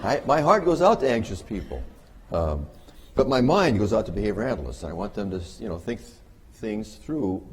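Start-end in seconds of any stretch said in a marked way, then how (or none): 0.0-1.8 laughing. Real, not acted. Laughing reassurance after joke.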